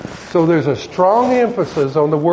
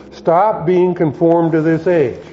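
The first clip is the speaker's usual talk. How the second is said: firm, slow quoted command; a measured telling-off, slowed for weight; mild rebuke. Retold or imitated. Apostle telling carnal Christians to stop, mildly rebuking. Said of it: "he's actually slapping them around a little bit".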